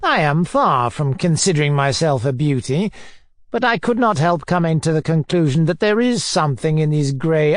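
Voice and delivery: mildly pompous, self-admiring oration; lightly voiced pompous bully; pompous tyrant. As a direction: lecture grandly, then taunt. Narrator plays Foma in dialogue.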